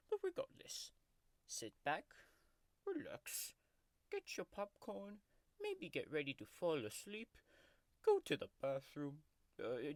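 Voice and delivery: grumpy tiger mascot growling through a fake ASMR video; sulky tiger taking over the channel; tiger character voice. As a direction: play a cranky cartoon tiger throughout. Tiger character Oscar hosts the video.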